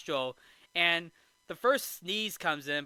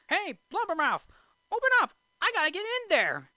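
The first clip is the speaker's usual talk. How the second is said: high-pitched mock yelling; hammed-up indignant shout, pitched way up; Jiminy Cricket; 13 semitones higher, 5 dB louder than usual. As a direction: yell up at a whale as a tiny cricket. Jiminy yells at whale, acted.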